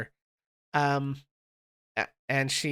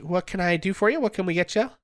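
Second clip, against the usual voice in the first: lightly voiced barmaid, a bit louder; eager, slightly raised hostess voice; Brecca greeting; 3 semitones higher, 4 dB louder, faster than usual. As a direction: welcome the table as the tavern girl. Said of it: "greets everyone again and says".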